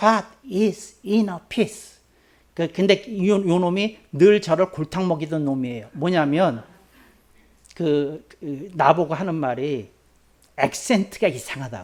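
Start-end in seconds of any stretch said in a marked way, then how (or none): 0.0-1.9 broken into separate words, pause after each. Retelling a child's question: pause after each word, inner peace. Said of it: "얘가 이렇게 끊어서 물었어요".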